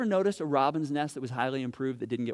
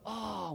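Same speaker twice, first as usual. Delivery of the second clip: mock sigh; 4 semitones higher, 5 dB quieter than usual. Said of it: "that universal cry".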